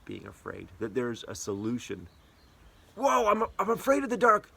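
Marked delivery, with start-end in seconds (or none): 2.9-4.6 high-pitched mock fright; mock scared. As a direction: yelp it like a startled kid. Acts a scared person.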